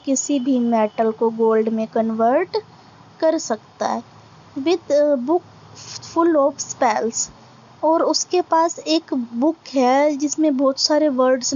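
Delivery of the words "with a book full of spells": very slow, deliberate recitation, word by word; slow poem reading. Acted. Teacher reading a poem line to students, slow recitation. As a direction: read each line out slowly for the class to follow.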